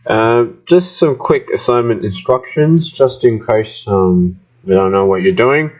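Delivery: muffled, as if through a mask. Real, not acted. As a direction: speak muffled, covered mouth. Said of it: "sorry about the muffled voice".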